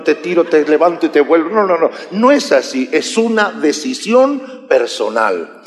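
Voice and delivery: ordinary talk, nothing marked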